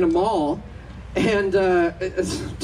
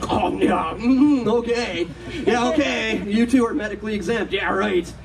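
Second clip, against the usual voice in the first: lightly imitated scornful disbelief; a hint of the lady's sneering "yeah, right"; mock scoff. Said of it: "scoffed like I've never heard before".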